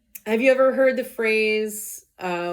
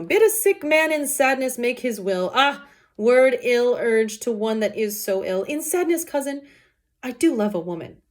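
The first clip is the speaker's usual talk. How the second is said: raised, declaiming Shakespeare reading; dramatic Romeo recital; 5 semitones higher, 4 dB louder than usual. Acted. Teacher performing Romeo's lament to class, impassioned. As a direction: deliver the oxymorons like a lovesick hero.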